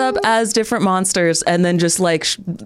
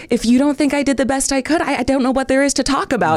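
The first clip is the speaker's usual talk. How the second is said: quoting mother; 7 semitones higher than usual. Retold or imitated.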